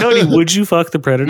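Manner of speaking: laughing through a fast teasing question; laughing tease. Real, not acted. Teasing Cody about the alien, laughing fast.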